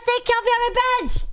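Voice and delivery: high, fast mocking voice; mock quote. Streamer mocks a viewer's message in a high squeaky voice. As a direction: read the chat line in a squeaky high voice.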